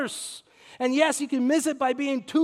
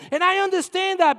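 normal talking voice

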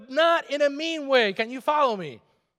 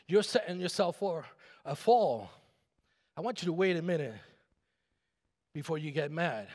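ordinary talk, nothing marked

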